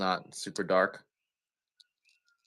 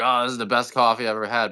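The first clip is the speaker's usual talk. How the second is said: mock delighted buyer; 5 semitones higher, 8 dB louder, faster than usual. Imitating delighted coffee buyer.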